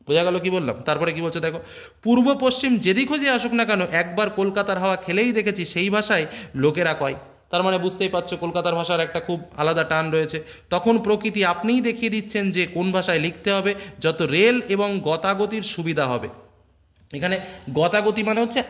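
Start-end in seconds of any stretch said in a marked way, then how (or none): 2.0-7.1 reading the text aloud. Acted. Reads quoted essay text aloud. 10.7-16.3 reading the text aloud. Acted. Reads quoted essay text aloud.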